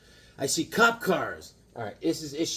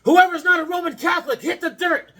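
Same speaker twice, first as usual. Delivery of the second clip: much higher, louder barked command; imagined shouted order; 14 semitones higher, 9 dB louder than usual. Pretend. Hawkman ordering the congregation down, a loud mock command. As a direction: bark it like a hero taking charge. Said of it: "I was like".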